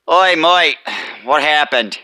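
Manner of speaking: lightly voiced boss with an "Oi, mate"; a touch of a blunt boss calling out. Boss asks driver what happened to trailer, lightly voiced. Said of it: "two different, uh, little, uh, voice patterns".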